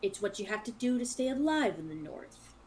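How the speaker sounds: soft, understated sneer. Acted. Luke justifies himself to the travelers with a quiet sneer. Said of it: "He kinda sneers again".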